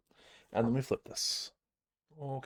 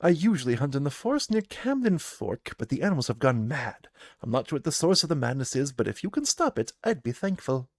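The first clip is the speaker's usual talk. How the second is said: a gruff huntress greeting travellers; gruff trapper woman; 3 semitones higher, 4 dB louder than usual. Acted. Trapper Hannah greets the party, gruff and loud.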